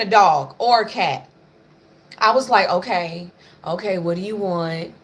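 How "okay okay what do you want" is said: soft, coaxing questions to the dog; a mild gentle-parenting coo. Retold or imitated. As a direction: talk sweetly like a patient parent. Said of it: "I was trying to be real gentle parent with her".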